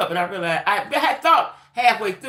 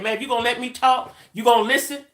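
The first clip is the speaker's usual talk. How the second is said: imitating his pushy demand, slightly raised; aggressive; 3 semitones higher than usual. Scammer demands she let him talk, mildly aggressive. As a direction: press the questions like an impatient man. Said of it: "he was very aggressive, very".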